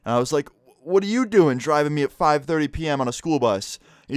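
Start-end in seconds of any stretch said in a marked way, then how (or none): 0.8-3.8 put-on alarmed kid. Alarmed kid challenges strange driver.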